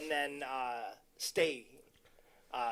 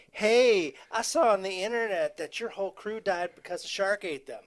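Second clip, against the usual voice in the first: dub voice; 6 semitones higher, 8 dB louder than usual. Retold or imitated. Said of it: "the dub is more like".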